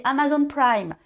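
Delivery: light English accent on Amazon Prime; playful touch of English accent. Shown as a demonstration. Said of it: "je prends l'accent un peu anglais".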